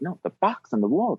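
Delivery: mock-urgent correction; imitated insistence. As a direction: insist on it, as if obvious. Retelling sleepy wife insisting.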